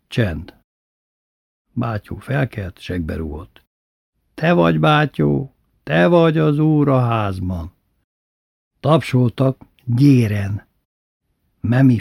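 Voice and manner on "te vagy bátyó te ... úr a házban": lightly chanted homage; recited submission. A narrator's reading. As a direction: recite it like a beaten servant. Beaten slaves recite their homage.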